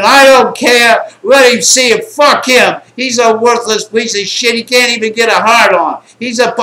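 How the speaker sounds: loud, high-pitched retold screamed tirade; imitated screaming. Bride rants about her husband mid-act, imitated screaming. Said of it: "she's screaming".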